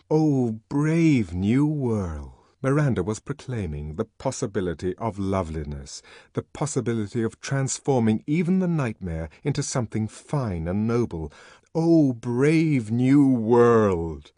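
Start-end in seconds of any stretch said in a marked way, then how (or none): 0.1-2.3 very slow, ringing proclamation; call to arms. A narrator's reading. Savage hearing the words as a call to arms, ringing. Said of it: "they trumpeted a call to arms". 11.7-14.3 very slow, louder, ringing cry; commanding challenge. A narrator's reading. Savage hearing a challenge in the words, commanding. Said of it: "It was a challenge, a command".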